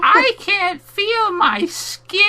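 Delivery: high, loud, drawn-out mock scream; over-the-top tormented cry, imitated; mock wail. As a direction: ham it up like a bad advert. Mock re-enactment of advert's screams.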